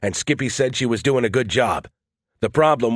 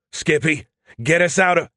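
raised, higher-pitched urgent command; urgent call; 5 semitones higher than usual. Acted. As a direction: call out urgently for rescue, cut off mid-order. Captain calls out as ship shakes.

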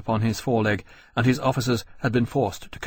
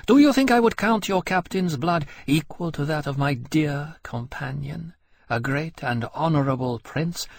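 high, rising bitter scorn; bitter contempt; 6 semitones higher than usual. A narrator's reading. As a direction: pour out grieving contempt. Lien's bitter grief.

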